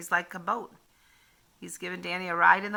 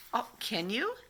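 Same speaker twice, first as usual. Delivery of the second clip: put-on excited boy; 4 semitones higher, 5 dB quieter than usual. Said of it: "said Danny".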